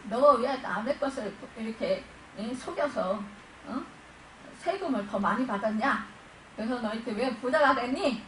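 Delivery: mildly stern, accusing questions; mock scolding. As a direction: act out a telling-off. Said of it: "이렇게 야단치지 않았어요". (야단치듯 따져 묻기)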